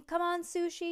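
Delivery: high-pitched cheering on; yelled cheer. A narrator's reading. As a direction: urge your racer along eagerly. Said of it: "yelled Frank".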